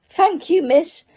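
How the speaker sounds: high, squeaky elf voice, eager to please; squeaky house elf. Acted. House elf tells Harry he needs work, high and squeaky. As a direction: pitch it up as an excitable little elf. Dobby thanks Hermione.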